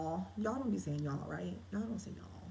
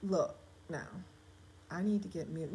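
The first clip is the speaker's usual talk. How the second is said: faster, louder start of a guy's line; man's dialogue; 11 dB louder than usual. Shown as a demonstration. Author tests a man's excuse to leave, brisk. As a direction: rattle it off like a dude. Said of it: "Y'all would say something like".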